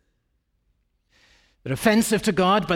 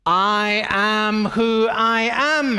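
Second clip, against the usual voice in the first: every word slow and weighted; slow, firm; 5 semitones higher, 4 dB louder, much slower than usual. Acted. Heather insisting to Hamish, slow and weighted. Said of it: "Heather would say".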